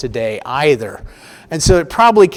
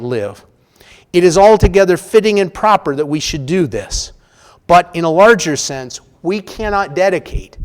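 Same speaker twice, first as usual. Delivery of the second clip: louder, measured oratory with ringing stresses; formal speech; 3 dB louder than usual. Acted. Lecturer reading the Gettysburg Address to the class, solemn oratory. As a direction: deliver it like a solemn address at a battlefield.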